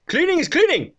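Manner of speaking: put-on high-pitched Asian-accented impersonation; Asian man's accent. Garage owner backing his cleaner, high imitated Asian accent. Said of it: "this is exactly how this man spoke".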